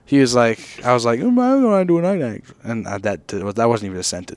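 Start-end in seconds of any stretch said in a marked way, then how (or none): 1.2-2.5 lightly voiced friend, higher; a quick take on Jack; impersonating Jack. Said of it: "that was me impersonating Jack".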